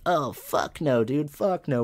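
loud, high group protest, retold; horrified refusal. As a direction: recoil in mock disgust, hitting each refusal. Whole class refusing to touch lock.

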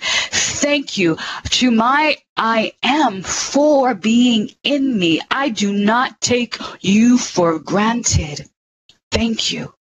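slow, devoted words of thanks; slow prayer. Acted. Speaker thanks her I AM presence in a slow prayer. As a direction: pray it slowly, each word weighed.

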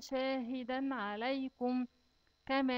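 شاهدا with a held nasal ghunna; شاهدا said slowly with a nasal hum; nasalized tanween. Shown as a demonstration. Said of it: "لازم تغنه".

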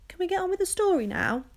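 impatient. Acted. Impatient child interrupts.

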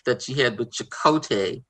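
natural Boston accent, talking casually; easygoing Boston accent in chat. Real, not acted. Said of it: "laughing at your Boston accent".

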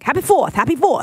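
mimicked Boston accent greeting; playful imitation of a Boston accent. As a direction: do passing Bostonians in their accent. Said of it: "but just 'cause they had the accent".

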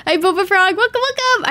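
cheery hello to a viewer; excited welcome. Real, not acted. Streamer greets a new viewer.

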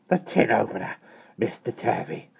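grim, curt announcement. A narrator's reading. Miss Tartlett arriving with the opener, grim. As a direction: announce it grimly, panting from the stairs. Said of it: "she began grimly".

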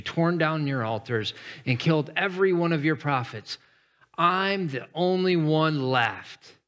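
lightly voiced prophet defending himself; mild indignant complaint; earnest protest. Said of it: "Elijah replied".

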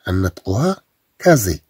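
كازي with a buzzing z; كازي said with z not s; z pronunciation. Shown as a demonstration. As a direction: say كازي with a voiced z sound. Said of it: "إلا ما زدناش اس أخرى".

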